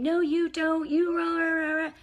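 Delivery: high, loud mock yell of an upset teen; imitating a yelling teenager, high and loud. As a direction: play the angry kid screaming back, hammed up. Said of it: "if they yell and scream".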